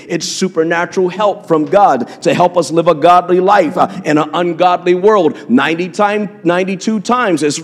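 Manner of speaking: normal talking voice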